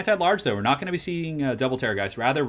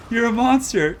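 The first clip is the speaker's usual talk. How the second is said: You're a monster! shouted high and loud; excited shout; 11 semitones higher, 7 dB louder, slower than usual. Real, not acted. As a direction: call out "monster" in real disbelief. Caster hypes a brutal play.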